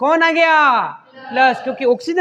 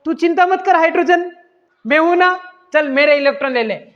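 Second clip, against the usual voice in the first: higher, bright helpful friend; water reassures hydrogen, pitched up and eager; cheerful reassurance; 3 semitones higher than usual. Retold or imitated. Mock-heroic I'm here for you. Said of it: "अब देखो जल बोलेगा".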